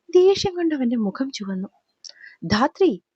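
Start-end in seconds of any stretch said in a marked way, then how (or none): 2.4-3.0 a sharp, angry call of her name. Acted. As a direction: snap her name out in anger. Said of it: "ദേഷ്യത്തോടെയുള്ള അടുത്ത വിളിയിൽ". (ദേഷ്യത്തോടെ വിളിക്കുന്നു)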